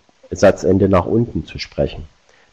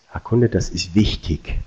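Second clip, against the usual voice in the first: softer, wichtig dropping at the end; falling ending; 2 semitones lower, 4 dB quieter than usual. Shown as a demonstration. Best version to the customer, falling. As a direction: bring wichtig down quietly and with firmness. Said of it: "viel wirksamer ist".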